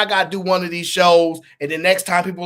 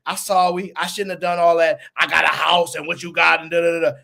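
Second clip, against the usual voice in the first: mock backing down. Host mimics opponent backing down, mock apologetic. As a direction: imitate a flustered retreat into apology. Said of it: "do y'all see the back down".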